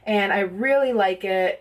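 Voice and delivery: slightly out of breath, huffing. Real, not acted. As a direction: talk while a bit winded. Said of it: "I don't know why I'm out of breath".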